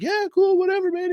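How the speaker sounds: hammed-up chill guy shrugging it off; laid-back dude. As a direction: play it way too relaxed, like he's been drinking. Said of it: "He's like".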